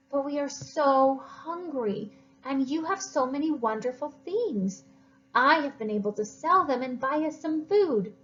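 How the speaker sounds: put-on sorry boy. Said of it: "He felt bad".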